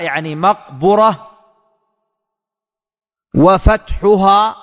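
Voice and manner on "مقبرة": مقبرة said with a clear u on the b, maqbura; showing the vowel. Shown as a demonstration. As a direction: stress the ضمة in مقبرة, maqbura. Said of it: "ضم الباء". (مقبرة بضم الباء بوضوح)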